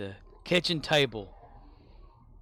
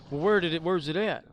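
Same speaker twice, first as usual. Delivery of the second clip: put-on drunk dad voice; 6 semitones higher, 8 dB louder than usual. Drunk dad asking again.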